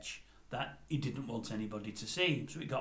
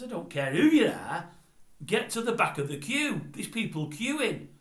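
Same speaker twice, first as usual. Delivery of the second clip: defiant shout; 9 semitones higher, 7 dB louder than usual. Retold or imitated. Bloke at the back refuses to back down, loud and defiant. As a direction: stand your ground and shout him down. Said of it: "The bloke at the back says".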